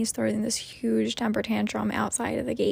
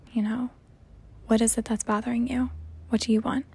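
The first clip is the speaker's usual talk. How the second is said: gentle asking; 3 semitones higher, 3 dB quieter, faster than usual. Retold or imitated. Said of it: "and he tells me".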